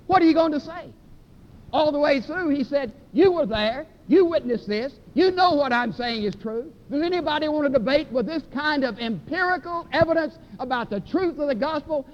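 preaching at full force. Acted. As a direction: hammer the crowd with the question.

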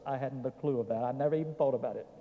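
quick, soft admission; quiet aside. Real, not acted. Preacher confessing to folks he had no clue, soft aside. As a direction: toss it off fast and softly. Low aside, then repeated with force.

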